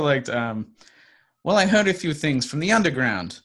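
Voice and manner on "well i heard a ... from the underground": lightly put-on informant character voice; a slightly higher character impression; Willy. Informant passing on what he heard, lightly put-on higher voice. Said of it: "Excellent Willy impression".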